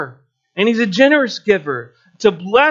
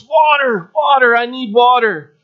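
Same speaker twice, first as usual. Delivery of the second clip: raised, pleading cry for water; begging for water; 4 semitones higher than usual. Acted. Parched man begs the bouncer, a raised pleading cry. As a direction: call out desperately at the door. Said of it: "he begs".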